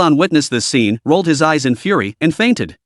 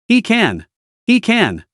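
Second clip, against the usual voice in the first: excited; 7 semitones higher, slower than usual. Acted. Crowd cheering him on.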